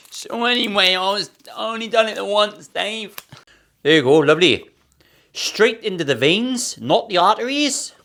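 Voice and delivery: high, lilting put-on Welsh voice; Welsh accent. Joking to viewer about syringes, in a put-on Welsh accent. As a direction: slip into a jokey Welsh accent. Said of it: "Don't know why I went Welsh".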